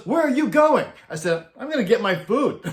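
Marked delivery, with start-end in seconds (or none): 0.1-0.9 higher, louder, indignant question; hammed-up outraged challenge; imitating an angry demand. Angry Dio chases him. 1.6-2.6 amused shouted answer; laughing shout. Retold or imitated. Laughing reply to Dio.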